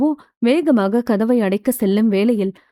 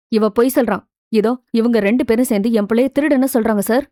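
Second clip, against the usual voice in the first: mother rattling off quick defensive complaints; fast, flustered protest to the shop owner. Acted. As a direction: hurry the words out, pleading to the boss. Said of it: "படபடவென்று பேச".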